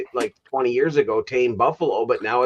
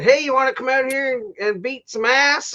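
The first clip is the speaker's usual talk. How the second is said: retold rowdy invitation; 12 semitones higher than usual. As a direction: imitate guys calling a buddy into a fight. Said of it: "and then they're like".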